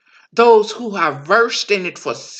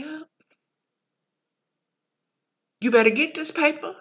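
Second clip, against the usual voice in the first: sassy mind voice; 2 semitones higher than usual. Acted. Mind persona keeps coaxing.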